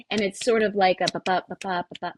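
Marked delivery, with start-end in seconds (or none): 1.1-2.1 rhythmic chant. Shown as a demonstration. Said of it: "I'm not even doing it properly".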